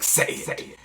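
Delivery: hissed, whispered command; insistent entity voice. Retold or imitated. Lifted-head figure demands the name, harsh whisper. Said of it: "it was like".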